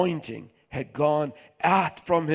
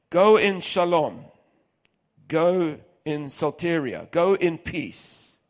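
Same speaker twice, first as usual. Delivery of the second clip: emphatic blessing; 3 semitones higher, 5 dB louder, slower than usual. Acted. Jesus blessing the healed woman.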